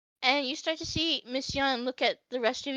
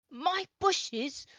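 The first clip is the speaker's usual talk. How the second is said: put-on grumpy old elf shouting; indignant old man yelling; angry old man; 4 semitones higher, 6 dB louder than usual. Elf shaking cane, angry.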